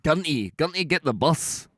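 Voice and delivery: slow Glaswegian attempt at "Gunty"; copied Glaswegian. Shown as a demonstration. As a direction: echo the Glaswegian line slowly.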